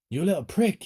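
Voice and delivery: sharp furious snap at his son; angry insult. A narrator's reading. Father snarling at his runaway son, angry. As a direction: spit it at the boy. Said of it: "he said".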